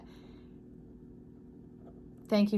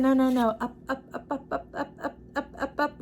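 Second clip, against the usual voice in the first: laughing up up; 4 semitones higher than usual. Retold or imitated. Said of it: "He said".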